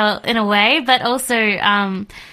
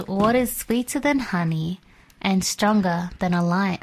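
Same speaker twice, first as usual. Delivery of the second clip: softer, measured verse reading; scripture reading; 5 dB quieter than usual. A narrator's reading. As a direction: read the riddle's answer aloud, softly and evenly. Reads the answer from scripture.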